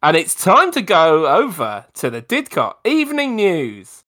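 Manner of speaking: upbeat radio station announcer. Acted. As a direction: introduce the news show like a DJ. Radio news intro.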